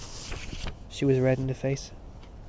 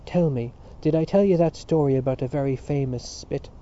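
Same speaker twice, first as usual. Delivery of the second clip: hoarse, rough-edged question; 3 dB louder than usual. Acted. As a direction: rasp it out hoarsely. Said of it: "said in a hoarse voice".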